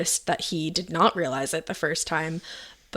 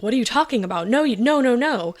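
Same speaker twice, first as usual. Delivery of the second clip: shocked disbelief; 6 semitones higher, 3 dB louder than usual. Retold or imitated. Friend reacting in disbelief, retold.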